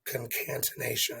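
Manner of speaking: Concatenation said kun-kan-tuh-NAY-shun; careful kun-kan-tuh-NAY-shun for Concatenation; own pronunciation. Shown as a demonstration. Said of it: "is how I say it".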